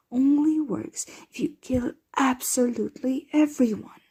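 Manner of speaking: exasperated, with hard stress on key words; short-tempered. Acted. Vampire venting about a bungling client, exasperated. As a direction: let indignation push the words up and out. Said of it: "being short with you before".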